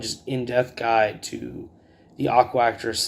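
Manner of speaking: ordinary delivery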